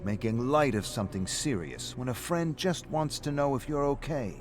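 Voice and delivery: lightly voiced taunting Rick; mocking friend. Rick taunts David in bar.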